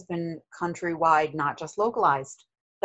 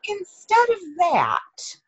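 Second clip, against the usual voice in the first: organiser; 10 semitones higher than usual. Retold or imitated. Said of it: "And he was like".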